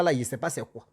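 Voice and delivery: usual speaking voice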